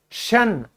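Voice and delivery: शन said as a short clear "shun"; suffix pronunciation demo. Shown as a demonstration. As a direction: model the ending शन for students to repeat. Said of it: "क्या कहना है". (शन का साफ़ उच्चारण)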